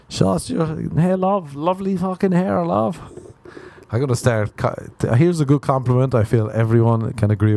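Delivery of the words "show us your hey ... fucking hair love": higher-pitched mock catcall; a lightly hammed-up street catcall; mock catcaller. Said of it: "screaming at them".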